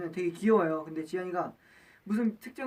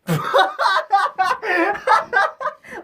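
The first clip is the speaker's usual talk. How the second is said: high bursting laugh; loud laughter; 12 semitones higher, 10 dB louder than usual. Real, not acted. Bursts laughing after aegyo.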